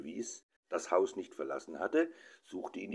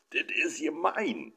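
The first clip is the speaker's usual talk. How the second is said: high whining protest; a child howling at unfairness; boy wailing it's not fair; 10 semitones higher than usual. A narrator's reading. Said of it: "der Knabe heulte auf".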